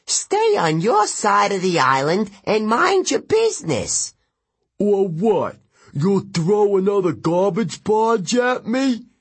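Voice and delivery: loud, high, squabbling god; angry river god. Acted. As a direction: snap at your rival.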